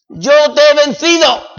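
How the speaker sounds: "Yo te he vencido" rung out high and loud; triumphant declaration. Acted. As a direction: cry "Yo te he vencido" out to the whole church. Proclaimed then echoed softly.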